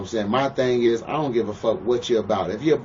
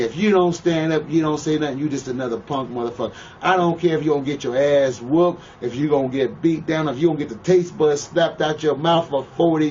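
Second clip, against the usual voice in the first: louder, higher preaching fury; heated rant; 5 semitones higher, 3 dB louder than usual. Real, not acted. Lecturing the interviewer on respect, loud heated rant. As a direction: drive the point home, louder and higher. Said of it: "rant on disrespecting a wife".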